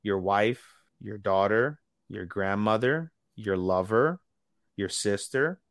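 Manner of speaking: slow list with a pause after each item; drawn-out threat. Retold or imitated. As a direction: retell a threat, letting each item hang. Retelling Makima's threat, item by item.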